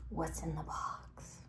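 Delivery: slow, low-key, softened question; hushed question. Retold or imitated. Friends teasing Brad about his takeaway box, hushed question. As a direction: ask it slowly under your voice.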